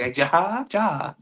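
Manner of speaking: mimicking a botched "Ja"; botched slang word. Green coworker trying out slang, butchering "Ja". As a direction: say "Ja" as a clueless, stretched-out attempt. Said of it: "How you butchering this word?".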